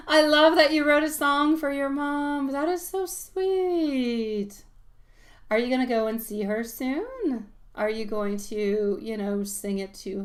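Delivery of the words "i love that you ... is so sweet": higher, louder, gushing, then very slow; real delighted gushing. Real, not acted. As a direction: gush with delight. Delighted about song for mom.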